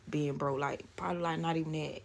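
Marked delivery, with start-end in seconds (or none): none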